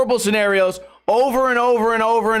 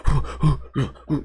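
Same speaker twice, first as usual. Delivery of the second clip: rumbling breath noise; 5 semitones lower than usual. Retold or imitated. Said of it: "my bed will just be like".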